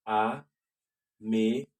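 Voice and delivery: américain drawn out slowly, ending nasal with no N. Shown as a demonstration. Teacher slowly modelling the male ending. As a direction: stretch américain and end it in the nose. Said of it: "the N is nasal".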